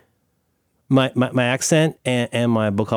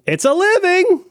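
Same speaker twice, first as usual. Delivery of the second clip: high, drawn-out cartoon creature; slow squawky-pitched cartoon line; cartoon animal gag; 3 dB louder, slower than usual. Host mimicking the Flintstone crow, high cartoon voice.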